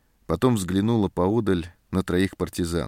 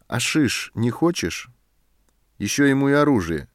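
annoyed retort; 6 semitones higher than usual. A narrator's reading. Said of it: "рассердился сержант".

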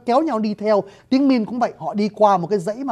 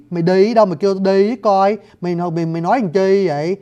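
put-on southern Khmer-tinged accent. Teacher repeating the southern phrase with gliding vowels. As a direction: exaggerate the gliding đấy of a southern speaker. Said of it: "nó trượt từ ơ sang a sang ư rồi mới về tới y".

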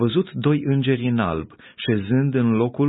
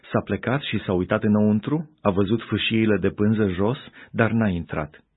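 plain reading voice

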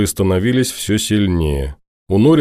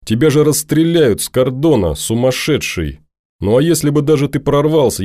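put-on higher, raised indignant girl; agitated young woman scolding; upset girl Norris; 5 semitones higher than usual. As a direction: berate the deserter, voice lifted. Norris berates the deserter.

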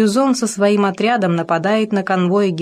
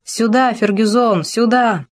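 calling out; 4 semitones higher than usual. A narrator's reading. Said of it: "Он кричит".

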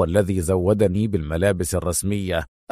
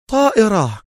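shouted; 12 semitones higher than usual. A narrator's reading. Officer realising the escape plan, shouting طائرة. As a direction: cry out طائرة in alarm. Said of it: "وصاح بصوت عال".

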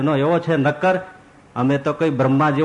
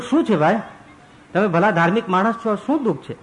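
kindly ascetic; 5 semitones higher than usual. Acted. Ascetic asks grieving father.

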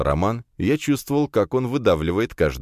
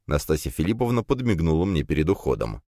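ordinary delivery

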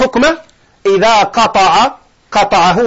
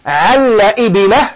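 slow quotation; slower than usual. Shown as a demonstration. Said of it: "احترز من قولهم".

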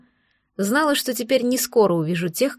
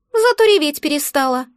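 higher, pleased little creature voice; smug egg creature; 4 semitones higher, 3 dB louder than usual. Acted. Magic egg gloats that the girl stopped crying, higher and smug. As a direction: sum it up with satisfaction. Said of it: "довольно подытожило яйцо".

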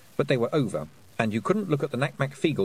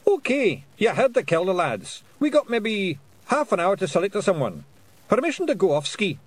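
high, loud rough Scottish pixie; indignant little Scottish warrior; Feegle voice; 10 semitones higher, 4 dB louder than usual. A narrator's reading. Rob Anybody speaking.

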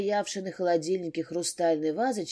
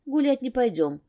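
firm, raised stern warning; 4 semitones higher than usual. Acted. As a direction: scold the dogs firmly. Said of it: "строго предупредила Майка".

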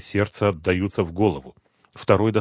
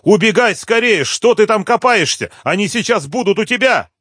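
much higher, louder frantic shout; 13 semitones higher, 7 dB louder than usual. A narrator's reading. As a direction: scream a warning down the phone. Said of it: "закричала".

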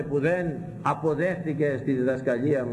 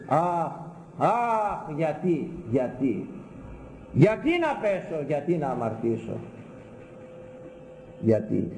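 mock lament; 3 semitones higher, slower than usual. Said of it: "τότε θα υπείς".

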